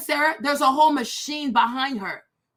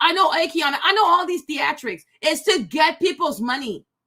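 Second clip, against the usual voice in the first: ordinary delivery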